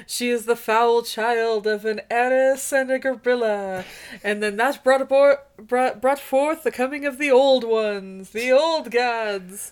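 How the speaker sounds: drawn-out mock-solemn recital; mock ominous prophecy. Cohost parodying a Lovecraft story, mock ominous recital. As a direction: intone it like a horror prophecy, stretching the ends.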